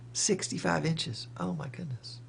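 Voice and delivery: stunned sixty-five inches; amazed. Real, not acted. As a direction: marvel at the size. Amazed at a 65-inch monitor.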